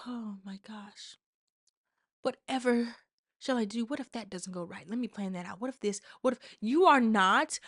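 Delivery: a hushed, hammed-up fret; mock fretting. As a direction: play the dithering worrier, hushed. Mocking the overthinker on couch.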